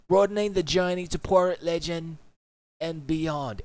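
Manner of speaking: grand British accent read. Shown as a demonstration. Streamer reading the final note in a British accent. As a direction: announce it like a Brit. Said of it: "I gotta do it in a British accent".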